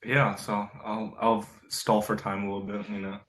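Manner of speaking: mouth full. Real, not acted. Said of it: "Reese, what are you eating?".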